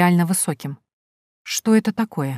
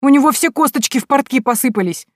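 put-on cheeky boy; 8 semitones higher, 4 dB louder than usual. A narrator's reading. Boy Proshka keeps talking.

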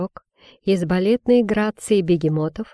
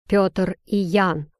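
grumbling; slower than usual. Acted. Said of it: "буркнул он".

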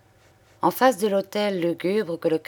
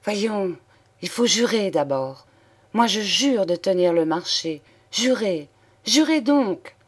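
exclaiming; 3 semitones higher than usual. Acted. Thérèse demands that Julien swear, crying out. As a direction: press him harder and harder, rising to a cry. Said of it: "Elle s'écria".

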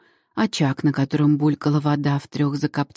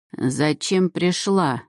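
slow, creaking crone's question; creaky old woman voice; much slower than usual. Acted. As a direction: grumble it like an ancient crone. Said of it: "скрипучий старческий голос".

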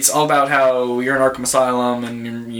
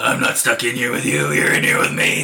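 Rorschach voice. Retold or imitated. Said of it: "Well, Rorschach, you've got".

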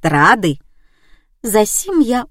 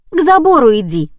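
a much higher, louder, chatty nurse voice; old nurse; 6 semitones higher, 5 dB louder, faster than usual. A narrator's reading. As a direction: eagerly direct the lost visitor.

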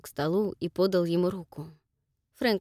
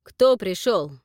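loud, hard question; a loud, sharp question; sharp demand; 2 semitones higher, 8 dB louder, slower than usual. Acted. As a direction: demand an answer. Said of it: "резко спросил Джек".

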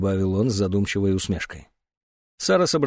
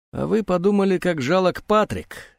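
put-on relaxed old man; 7 semitones higher than usual. A narrator's reading. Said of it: "старик говорил расслабленно".

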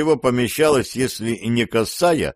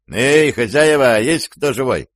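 calling out; 3 semitones higher, 3 dB louder than usual. Acted. Knocking, calling out to house.

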